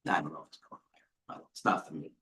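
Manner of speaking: hushed, half-whispered doubt; whispered aside. Real, not acted. Trader doubting Ford, whispering aside to himself. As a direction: breathe the words low, almost to yourself.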